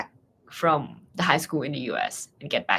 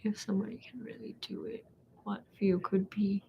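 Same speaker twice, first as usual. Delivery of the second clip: soft hesitant reading; 4 semitones higher, 7 dB quieter than usual. Real, not acted. Reads a prepared question softly.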